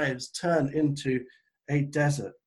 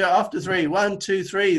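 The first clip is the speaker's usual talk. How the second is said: rousing count-in; 2 semitones higher, 4 dB louder than usual. Real, not acted. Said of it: "shout out together".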